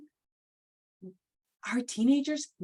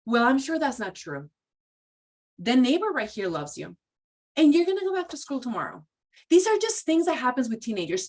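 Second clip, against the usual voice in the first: dismissive parent; 2 semitones higher, 3 dB louder than usual. Retold or imitated. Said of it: "And you say".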